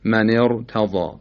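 slow من ارتضی with a thick ر; heavy r. Shown as a demonstration. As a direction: recite ارتضی with the r full and velarized.

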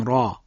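"را" with thick r and dark back vowel; heavy ra. Shown as a demonstration. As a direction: say "را" full-mouthed.

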